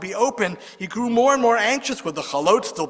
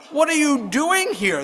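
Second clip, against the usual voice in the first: shouted question; 8 semitones higher than usual. Retold or imitated. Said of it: "the rabbi shouted".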